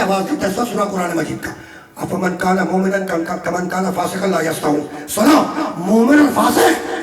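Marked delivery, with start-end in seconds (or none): 2.0-5.1 chanted Arabic verse; Quran recitation. Acted. Preacher reciting scripture to listeners, chanted recitation.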